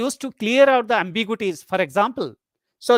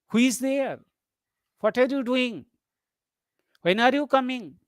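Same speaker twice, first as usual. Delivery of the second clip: higher pitch, dropping at each question's end; neutral, slightly unfriendly questions; 4 semitones higher than usual. Shown as a demonstration. Teacher demonstrating W H questions, neutral falling tone. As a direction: ask it without friendliness, with a falling end. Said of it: "these are the neutral or something unfriendly way".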